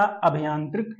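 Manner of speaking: अभियांत्रिक with short opening a and "bhi"; short a, then bhi in अभियांत्रिक; spelling option read out. Shown as a demonstration. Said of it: "शुद्ध शब्द बताना है".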